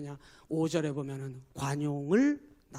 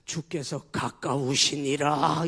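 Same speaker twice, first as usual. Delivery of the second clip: slow, grave scripture voice; solemn, slow scripture recital; solemn quotation; 4 semitones lower, 6 dB louder, much slower than usual. Shown as a demonstration. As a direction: pronounce the verse weightily. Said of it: "바울 사도 선생님이 이렇게 얘기했어요".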